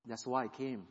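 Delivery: still small voice. Retold or imitated. God answering the weeping sinner, soft and still. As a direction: answer him quietly and gently. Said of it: "a very still small voice".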